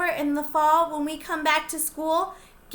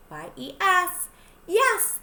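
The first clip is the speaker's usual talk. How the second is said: excited yes; 5 semitones higher, 3 dB louder, slower than usual. Acted. Spelling and cheering yes.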